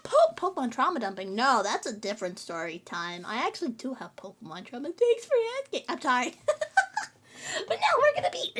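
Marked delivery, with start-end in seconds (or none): 6.4-8.5 raspy, phlegmy voice; scratchy, catching in the throat. Real, not acted. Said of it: "did you hear how scratchy that".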